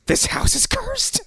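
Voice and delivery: very high, slow, drawn-out cry; mock dread. Grandma's eyes turn white at the creatures, high slow doom cry. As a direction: screech it as a hammed-up omen.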